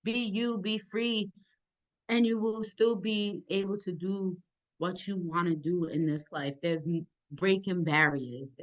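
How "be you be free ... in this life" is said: reassuring advice. Pretend. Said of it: "to let them know that".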